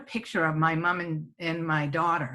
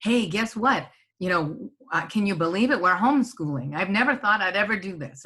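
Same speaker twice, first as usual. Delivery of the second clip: sharing great news; 3 dB louder than usual. Shown as a demonstration. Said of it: "telling them about the great things".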